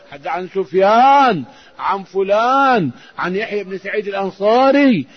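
ringing list of narrators, names stretched out; hadith recitation. Acted. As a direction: recite the chain, swelling on each final name.

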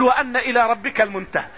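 "وأن" said wa-anna, open "a" on the hamza; fatha reading. Shown as a demonstration. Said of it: "بعضهم يقرأ بفتح الهمزة".

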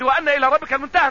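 quick citation with "وأن" as wa-anna; brisk verse, fatha on "وأن"; fatha reading. Shown as a demonstration. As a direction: say "وأن" with an open "a" on the hamza. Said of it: "بعضهم يقرأ بفتح الهمزة".

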